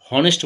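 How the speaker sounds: হনেস্ট begun with a breath of "h"; wrongly sounded H. Shown as a demonstration. Teacher rejecting a wrong pronunciation, হনেস্ট with h sounded. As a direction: voice the h that should be silent in হনেস্ট. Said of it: "বলি না আমরা".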